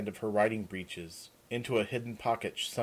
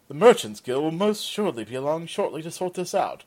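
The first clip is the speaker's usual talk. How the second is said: holding back tears; 7 semitones higher, 6 dB louder than usual. Acted. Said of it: "his face red from tears barely held back".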